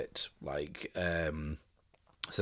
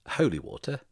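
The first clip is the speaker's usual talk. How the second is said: Holy water? asked higher and louder, puzzled; confused; 7 semitones higher, 4 dB louder than usual. Acted. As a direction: repeat Holy water? as a baffled question, pitch rising up. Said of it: "Cole's kind of confused and says".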